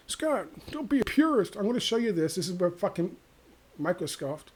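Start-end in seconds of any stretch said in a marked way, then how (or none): 0.1-2.4 imitating Matt Taibbi. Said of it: "Matt Taibbi".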